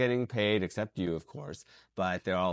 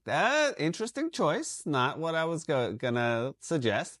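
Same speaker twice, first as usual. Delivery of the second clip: casting panel reaction; 6 semitones higher than usual. Retold or imitated.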